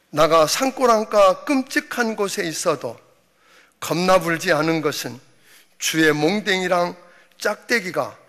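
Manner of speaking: Jeolla dialect. Pretend. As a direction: preach the psalm like a Jeolla grandpa. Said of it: "전라도 버전은".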